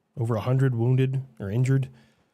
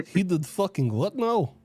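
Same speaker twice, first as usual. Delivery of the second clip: put-on Russian accent. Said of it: "most humorously accurate Russian accent".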